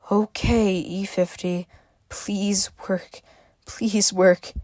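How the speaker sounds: anxious hushed whisper. A narrator's reading. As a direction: whisper it, pleading with the machine. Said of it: "Izzy whispered".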